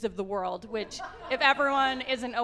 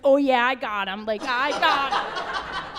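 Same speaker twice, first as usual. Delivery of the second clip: triumphant; 4 dB louder, slower than usual. Retold or imitated. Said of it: "I'm like".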